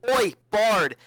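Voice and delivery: loud call to a bard; half-shouted hail; mock yell. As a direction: holler to get the bard's attention. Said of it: "immediately wanna yell".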